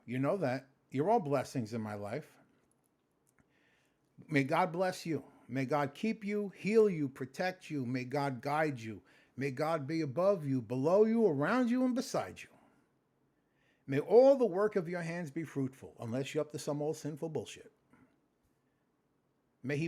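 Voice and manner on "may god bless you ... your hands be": spoken blessing. Acted. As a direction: bless them like a priest. Blesses his viewers.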